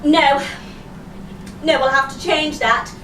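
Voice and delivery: lightly voiced disapproving interviewer; male interviewer. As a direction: imitate an interviewer cutting someone off. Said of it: "the man interviewing me went".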